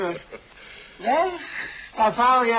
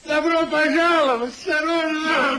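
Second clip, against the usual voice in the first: higher, ringing welcome call; hearty welcome; 4 semitones higher than usual. Acted. Sir Peter welcomes Sir Oliver home, hearty and ringing. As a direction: greet him with open arms. Welcoming an old friend loudly.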